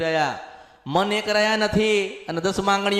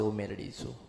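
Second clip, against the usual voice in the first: a much lower, much softer otherworldly voice declaring itself; goddess announcing herself; 11 semitones lower, 14 dB quieter than usual. Acted. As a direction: speak as the goddess rising from within, low and hushed. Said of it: "ત્યારે પેલી માં બોલવા આવશે". (નીચા, ધીમા, અલૌકિક અવાજે દેવી પોતાની ઓળખ આપે)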